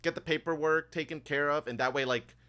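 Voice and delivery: lightly voiced obliging clerk; chatty bank assistant. Bank assistant offering customers the tour or paperwork, lightly voiced and chatty.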